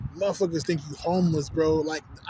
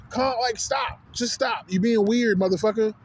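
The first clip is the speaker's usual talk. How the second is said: raised-pitch, fed-up protest; exasperated; 4 semitones higher, slower than usual. Retold or imitated. Man telling his manager to stop being weird, exasperated. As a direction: push back, pitched up and irritated.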